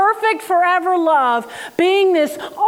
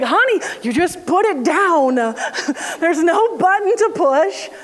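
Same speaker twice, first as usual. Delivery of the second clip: laughing mom; 3 semitones higher than usual. Retold or imitated. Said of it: "And her mom was like".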